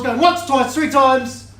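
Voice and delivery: loud, rising auction call; auctioneer call. Real, not acted. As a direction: call it out to the room. Auctioneer closing the bidding.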